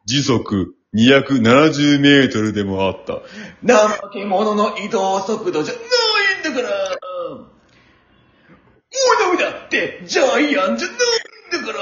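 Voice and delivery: whiny gyaru complaining; japanese gyaru slang. Acted. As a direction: gripe like a dramatic gyaru.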